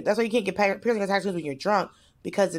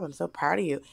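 soft gentle quote; 4 semitones lower, 6 dB quieter than usual. Retold or imitated. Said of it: "she was like".

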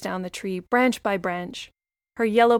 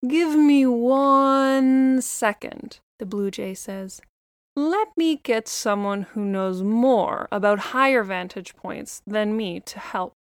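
lightly voiced chatty little bird; a hint of a busy songbird; blue jay voice.

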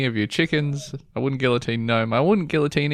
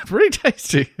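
high laughing echo of the verdict; laughing repeat; 9 semitones higher than usual. Retold or imitated. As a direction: laugh through it, mocking yourself. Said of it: "How's that diarrhea going?".

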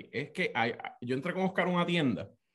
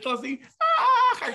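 laughing yell; 7 dB louder, slower than usual. Real, not acted. Sweating from spicy food.

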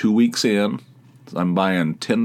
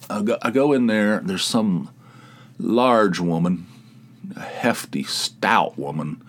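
ordinary talk

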